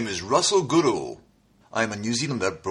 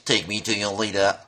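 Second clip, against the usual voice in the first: alien voice; 5 semitones lower than usual. Shown as a demonstration. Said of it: "I can do aliens who are out from space".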